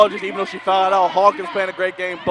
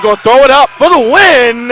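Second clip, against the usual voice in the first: rising excitement; 4 semitones higher, 8 dB louder than usual. Real, not acted. Buzzer-beater call rising.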